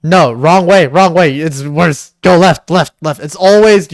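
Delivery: loud, insistent directions; urgent correcting. Real, not acted. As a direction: call out corrections over and over. Urgently directing the other to move.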